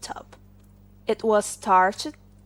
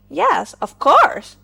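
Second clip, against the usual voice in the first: a touch higher, louder and slow; proud hair comb; 5 semitones higher, 8 dB louder than usual. Acted. Hair comb answering the collar, slightly raised pride.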